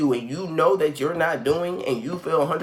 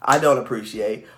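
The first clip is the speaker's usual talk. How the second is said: lower, firm business tone; all business, pitched down and measured; 4 semitones lower than usual. Shown as a demonstration. Speaking up to a manager at work, low business voice. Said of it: "here comes that business mindset".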